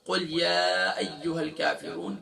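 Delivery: قل یا ایھا الکافرون recited slowly; slow recitation. Shown as a demonstration. Teacher reciting the verse slowly to the class. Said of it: "کہہ دیجئے اے کافرو".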